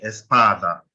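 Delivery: espada leaning on the first A; teacher's demo of "espada" as es-PA-da; stress on PA. Shown as a demonstration. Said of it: "You can hear the stress on the A".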